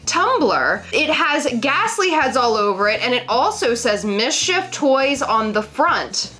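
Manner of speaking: light cool newscaster read; a hint of smooth TV anchor. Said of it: "me being a newscaster trying to be cool".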